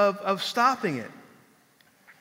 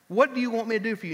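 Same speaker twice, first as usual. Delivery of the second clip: quicker, brighter repeat; 4 semitones higher, faster than usual. Acted.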